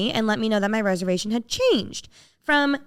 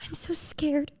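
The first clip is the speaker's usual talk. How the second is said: small, high, hushed voice; retold scared; 7 semitones higher, 8 dB quieter, slower than usual. Caller confessing fear to the hostess, small scared voice. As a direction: squeak it softly, imitating your frightened self. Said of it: "I literally went".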